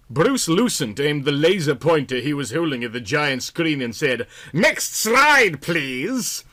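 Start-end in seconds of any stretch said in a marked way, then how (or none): 4.5-6.4 put-on high, lightly boyish command; a hint of boyish eagerness; slightly boyish voice. Presenter asking for the next slide, lightly boyish. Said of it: "in his slightly boyish ... voice".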